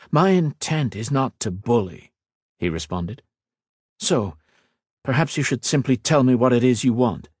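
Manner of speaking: a hint of a calm young lord; earnest mage, lightly voiced. Ethan explaining to the Queen, lightly voiced earnest.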